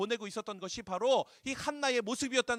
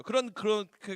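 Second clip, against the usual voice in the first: usual speaking voice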